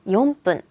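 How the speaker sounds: "용 분" as YOM-PPUN, tense P; strong pronunciation. Shown as a demonstration. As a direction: close the lips on "용", then hit "분" as "뿐". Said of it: "이유 없이 세게 읽어요".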